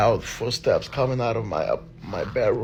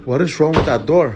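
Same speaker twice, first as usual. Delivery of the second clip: scared shout; 5 semitones higher, 10 dB louder than usual. Real, not acted. Door acting up, scared.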